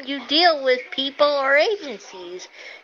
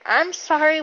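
exasperated; 4 semitones higher than usual. Real, not acted. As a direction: stretch out what the hell in real disbelief. Ranting about agencies' security.

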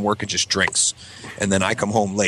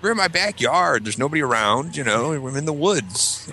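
put-on drawn-out, higher-pitched childish protest; protesting kid; 5 semitones higher than usual. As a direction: plead your case like a kid caught out. Kid arguing back at dad.

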